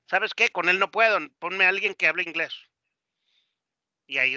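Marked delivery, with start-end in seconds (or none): 0.1-2.5 cliente impaciente. Acted. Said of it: "la persona muchas veces dice".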